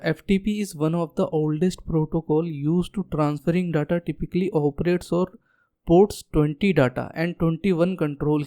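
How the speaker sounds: dictating a definition very slowly; slow definition reading. Shown as a demonstration. Teacher dictates the FTP definition slowly to students. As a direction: read the definition so students can note it.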